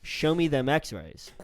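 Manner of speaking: slow smooth delivery. Shown as a demonstration. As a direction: slide it out smooth and cool. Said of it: "You're trying to be smooth with it".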